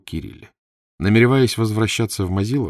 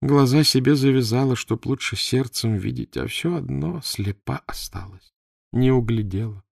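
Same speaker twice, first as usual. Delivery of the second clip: slow, higher-pitched self-reproach; lamenting; 6 semitones higher than usual. A narrator's reading. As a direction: lament your own blindness, drawing it out. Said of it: "перекрестилась и посетовала". (сетуя, протяжно)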